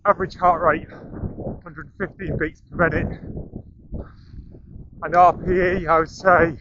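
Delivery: talking mid-run, short breaths; speaking while jogging along; while running. Real, not acted. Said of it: "We're running up the coast".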